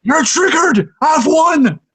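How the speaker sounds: mocking a fanboy who thinks he won, high gloating squeal; mock gloating troll. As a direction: crow like a smug online troll. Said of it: "and they go".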